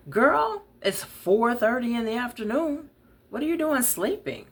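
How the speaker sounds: high, loud, teasing voice; big laughing scold, pitched high; loud and smiling. Acted. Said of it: "Afua spoke loudly and smiled".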